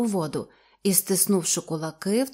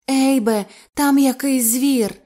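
frightened; 5 semitones higher, 6 dB louder, slower than usual. Acted. Li terrified of the beast.

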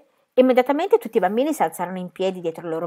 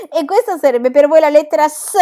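put-on cheeky child character; 9 semitones higher, 10 dB louder than usual.

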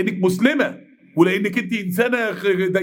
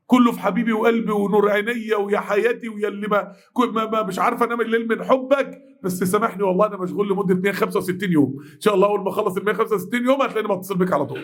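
sweet-talking friend. Retold or imitated. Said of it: "كله في هاي اند باي".

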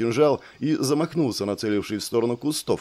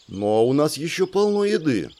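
возмущённо; 5 semitones higher than usual. Acted. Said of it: "возмутилась леди".

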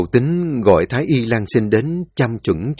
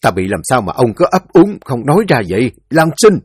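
impatient demand; 3 semitones higher, 5 dB louder than usual. Acted. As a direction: press him hard, losing patience. Quan sốt ruột gặng hỏi. (sốt ruột gặng hỏi, gọi to tên Lan Sinh)

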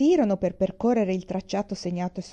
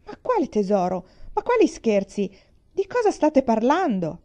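baffled protest; 4 semitones higher, 4 dB louder than usual. Acted.

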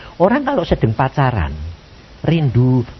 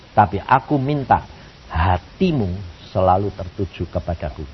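tender request; 8 semitones lower, 5 dB quieter than usual. Retold or imitated. God's tender reply acted out.

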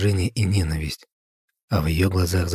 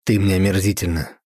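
through gritted teeth; 4 dB louder than usual. Acted. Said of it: "процедил сквозь зубы граф".

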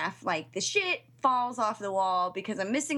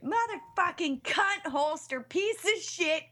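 retold screaming; 5 semitones higher, slower than usual. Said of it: "I was literally scream".

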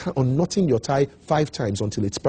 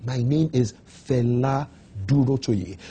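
slow, clear name. Shown as a demonstration. Speaker showing candidates how to say their name, slow and confident. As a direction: say the name slowly and distinctly. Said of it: "Slow down when it comes to your name".

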